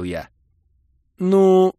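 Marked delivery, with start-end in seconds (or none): 1.2-1.7 high, loud impatient prod; waiting for an answer; demanding girlfriend. Acted. Kira pressing him.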